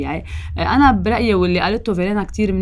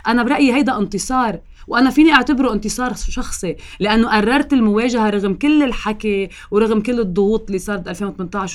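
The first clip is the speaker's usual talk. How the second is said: proud; 3 semitones higher than usual. Real, not acted. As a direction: declare the victory with pride. Proud claim of personal victory.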